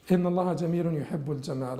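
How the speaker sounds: hadith rattled off very fast in one breath; fast Arabic recitation; rapid recitation. Shown as a demonstration. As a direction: recite it quickly from memory. Recites the same hadith again.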